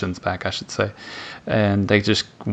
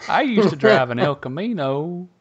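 higher, playful redneck voice; mock Southern redneck; 7 semitones higher than usual. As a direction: brag like a good ole boy. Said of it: "We could talk like this".

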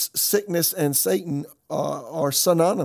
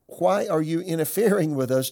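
shouting demon; 4 semitones higher, 4 dB louder than usual. Acted. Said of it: "began shouting at Jesus".

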